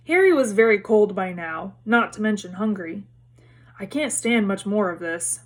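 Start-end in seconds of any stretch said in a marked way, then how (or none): 3.8-5.4 muttered through chattering teeth; shivering mutter. Acted. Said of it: "Ron muttered, his teeth chattering".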